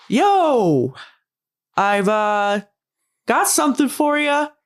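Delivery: high call with a drawn-out yo. Calling out to see if the person in the shower can hear, calling out. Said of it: "I'm gonna try and call out".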